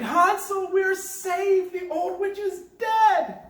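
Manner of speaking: high loud shout of relief; joyful cry. Acted. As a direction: shout the good news to Hansel. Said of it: "and cried".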